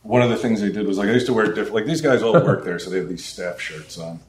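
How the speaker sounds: slightly high, a bit distracted; stoned. Real, not acted. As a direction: talk a little stoned and scattered. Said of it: "I'm a little high".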